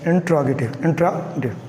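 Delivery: इंट्रोगेटिव with the short "intro" opening; correct pronunciation. Shown as a demonstration. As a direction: repeat इंट्रोगेटिव carefully, stressing the in-tro start. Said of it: "आपने कहना है इंट्रोगेटिव".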